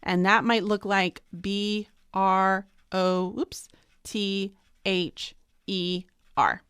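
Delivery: brother spelled out "B", "R", "O", "T", "H", "E", "R"; spelled letter by letter. Shown as a demonstration. Teacher spells brother while writing. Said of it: "I have seven letters".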